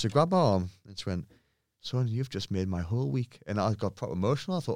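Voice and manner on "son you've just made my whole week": delighted, pleased, grateful, happy tone. Retelling what a pleased woman said while grabbing an arm: imitating someone pleased. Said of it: "And she was so pleased and so happy".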